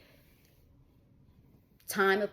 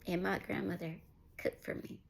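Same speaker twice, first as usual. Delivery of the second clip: words choked off by tears; 8 dB quieter than usual. Real, not acted. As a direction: voice fading to a tearful whisper. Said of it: "I did not plan on getting teary-eyed".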